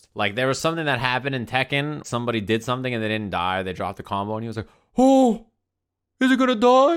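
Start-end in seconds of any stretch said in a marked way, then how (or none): 5.0-7.0 very high, loud, drawn-out, spooked ghostly voice. Retelling a commentator's reaction to a dropped combo: imitating Obama sounding spooked like a ghost. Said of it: "He sounded like a ghost, spooked him".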